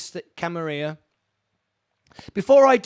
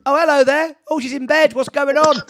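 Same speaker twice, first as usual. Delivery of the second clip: surprised; 7 semitones higher, 8 dB louder than usual. Real, not acted. Host spots wife in bed on camera.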